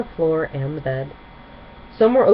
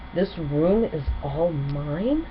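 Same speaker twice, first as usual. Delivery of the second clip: awed disbelief; much slower than usual. Acted. Twilight marvels at her room.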